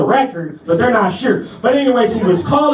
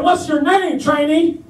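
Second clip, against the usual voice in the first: raised-pitch interrogating sergeant; imitated drill sergeant; 6 semitones higher than usual. Sergeant demanding a trainee's name, imitated drill-sergeant voice. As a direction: play a sergeant demanding an answer.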